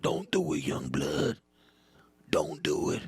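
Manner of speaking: hushed, urgent warning; veteran's secretive warning; bitter old-timer. Acted. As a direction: drop to a whisper on the repeat. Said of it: "that bitter employee".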